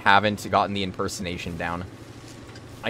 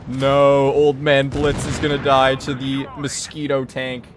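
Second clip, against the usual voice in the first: loud, lightly voiced old man; a half-hearted old man voice; 6 semitones higher, 7 dB louder, slower than usual. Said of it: "that impression was like a three out of ten".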